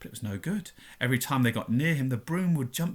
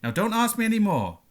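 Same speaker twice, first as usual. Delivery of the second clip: louder, higher gruff rebuff; 7 semitones higher, 5 dB louder than usual. A narrator's reading. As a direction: shut the questions down gruffly. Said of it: "said Hagrid gruffly".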